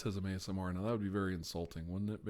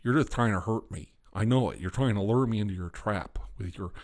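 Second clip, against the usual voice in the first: a loud hammed-up paranoid weirdo; weird character voice; 5 dB louder than usual. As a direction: rant like a twitchy suspicious oddball. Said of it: "I've been doing this weird voice".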